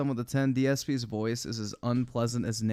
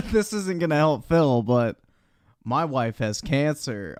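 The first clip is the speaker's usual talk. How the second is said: mock repeat; 2 semitones higher, 4 dB louder than usual. Streamer mocks the clip guy's line, hammed-up parroting. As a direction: echo the line back as a mocking impression.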